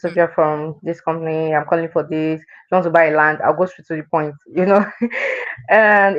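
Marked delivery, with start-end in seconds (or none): 0.0-3.4 stiff, scripted phone pitch; robot voice. Retold or imitated. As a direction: recite it like a robot. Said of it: "I would always sound like a robot on the phone".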